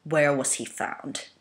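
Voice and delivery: slow, tightly controlled question; restrained temper. Acted. Megatron reining in his temper with Hook. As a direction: hold the anger down and speak slowly. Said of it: "his tone carefully modulating, trying to rein his temper".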